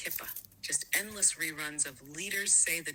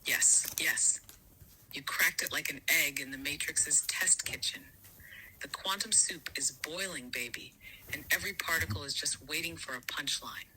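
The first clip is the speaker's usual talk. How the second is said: breathy hushed whisper, voiceless. Acted. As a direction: lean in and whisper it like a secret. AI voice whispering its reply.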